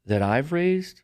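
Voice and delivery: slow, high, deliberate emphasis; retold solemn reproach, drawn out; imitated motherly lecture. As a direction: mimic a mother making her point word by word. Mother's stern speech, retold.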